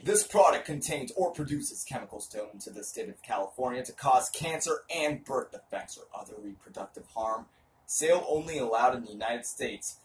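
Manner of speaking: hammy stage actor. Shown as a demonstration. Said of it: "Dramatic reading".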